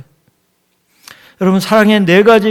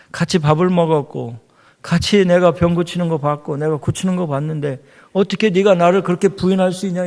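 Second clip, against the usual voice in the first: scolding rebuke. Retold or imitated. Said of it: "막 이랬으면요".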